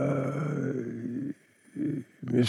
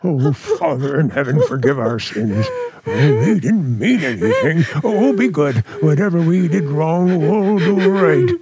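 frightened pleading. Acted. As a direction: panicky prayer, spilling out fast. Frightened prayer to talking cat.

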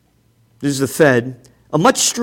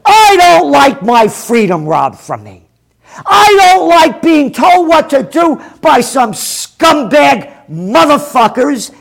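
angry rant; 4 semitones higher than usual. Real, not acted. Host ranting at a viewer critic, furious. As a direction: rail against being told what to do.

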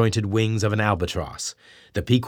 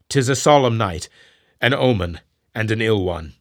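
a lightly voiced grave mate, louder; solemn first mate; 3 dB louder than usual. Starbuck answers his captain, lightly voiced and solemn. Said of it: "said Starbuck".

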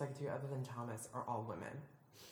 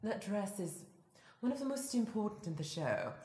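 Mary; 8 semitones higher, 5 dB louder than usual. Acted. Co-host doing a requested impression while discussing a dress, high mannered voice. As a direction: start high, let each sentence fall at the end. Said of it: "do my Mary impression while we're talking".

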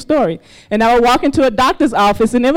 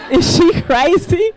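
laughing disbelief; 6 semitones higher, slower than usual. Real, not acted. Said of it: "laughing disbelief".

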